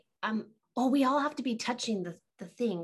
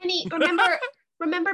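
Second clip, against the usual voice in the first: calling out; 4 semitones higher, 6 dB louder, much faster than usual. Acted. Calling out to Penny.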